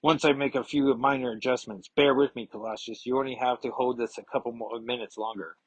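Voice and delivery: lightly attempted, bad German accent; horrible German accent. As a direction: read it in a clumsy German accent. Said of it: "that's a horrible German accent".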